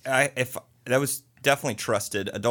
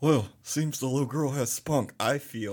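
Elvis voice; 3 semitones higher than usual. Pretend. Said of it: "And I did the Elvis voice".

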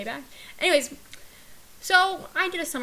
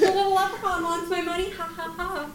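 higher, giggly teasing voice; mocking laughter; 5 semitones higher than usual. Co-host mocking the Irish mobster, laughing and teasing. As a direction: tease it out with a mock ha-ha.

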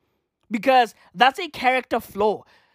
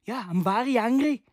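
bad Irish accent; 4 dB quieter than usual. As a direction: fake Irish accent drifting toward Scottish. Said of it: "Is that how they talk?".

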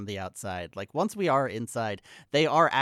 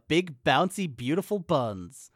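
slow, emphatic headline read; punched, drawn-out magazine headlines; reading out cover lines; 3 semitones higher, 4 dB louder, slower than usual. Retold or imitated. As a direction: announce each lurid tagline with relish. Reading porno mag cover lines.

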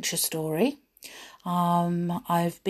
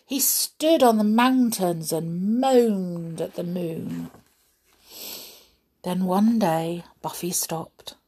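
measured, expressive storybook reading; unhurried tale-telling with lively emphasis; story narration; 3 dB louder than usual. A narrator's reading. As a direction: read it to children, stressing key words. Reads children's adventure story.

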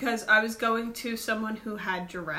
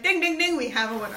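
game show; 2 semitones higher, faster than usual. Retold or imitated. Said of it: "I was like".

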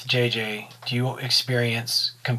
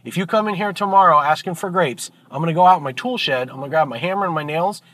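fed-up bartender; 3 semitones higher than usual. Acted. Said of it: "The bartender goes".

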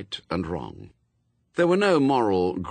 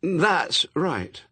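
nervous; 9 semitones higher, 3 dB louder than usual. A narrator's reading. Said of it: "said Pepper nervously".

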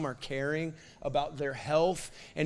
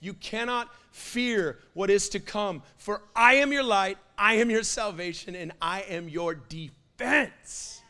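roaring God; 2 semitones higher, 7 dB louder than usual. Retold or imitated. The Lord roaring promises to the dreading, fading to calm. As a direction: roar the promise, then settle. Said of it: "I felt him roar".

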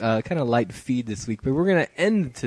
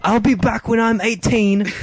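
put-on much higher, louder girlish voice; girl's voice; 9 semitones higher, 5 dB louder than usual. Host reading the girl's texts in a high girl voice.

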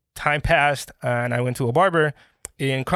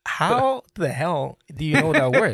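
laughing; 3 semitones higher, 5 dB louder than usual. Real, not acted. Laughing while retelling Russian friend.

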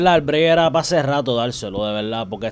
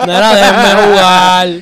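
mock whining kid; 6 semitones higher, 11 dB louder, much slower than usual. Friend mocks the begging gamer.

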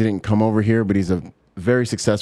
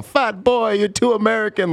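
pitched-up mocking heckle; mimicked taunt; 9 semitones higher than usual. Bahamas locals taunting the visiting American kid, high mocking taunt. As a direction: jeer like the locals picking on an outsider.

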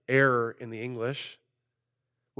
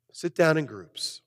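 smooth unhurried read. Retold or imitated. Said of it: "The nice, pretty Greek comes back".

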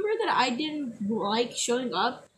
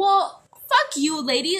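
slow, louder mock snap; pissed retort; 5 dB louder, slower than usual. Girl replaying what she wanted to tell the teacher, mock angry. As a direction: spit it out slowly, pissed off. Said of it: "And so I was like".

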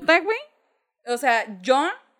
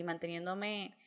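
outwardly calm; 5 semitones lower, 13 dB quieter than usual. Retold or imitated. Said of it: "yo por fuera así".

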